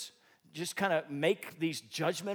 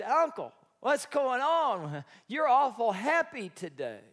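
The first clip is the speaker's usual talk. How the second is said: put-on young nephew; 6 semitones higher, 9 dB louder, slower than usual. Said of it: "And Edward said".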